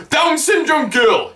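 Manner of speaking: high-pitched, drawn-out heckle; re-enacted shout. Fan heckling Seth from the audience, high shout. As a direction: call it out slowly from the crowd. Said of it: "I shout".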